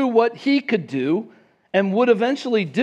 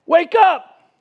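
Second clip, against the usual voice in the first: much higher and louder, sarcastic alarm; urgent wake-up call; 8 semitones higher, 6 dB louder than usual. Retold or imitated. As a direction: shake a sleeper awake. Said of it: "they're kinda like".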